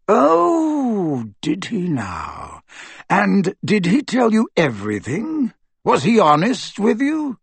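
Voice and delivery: high drawn-out start, falling away, then pointed questions; sarcastic scepticism. Acted. Aberforth doubting Dumbledore's honesty, sarcastic. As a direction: needle him with mock surprise.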